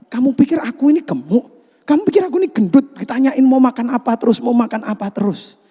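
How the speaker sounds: high, quick offended protest; a wife taking the question as an insult, hurt and indignant. Acted. Acting out a wife who hears she's fat, huffy protest.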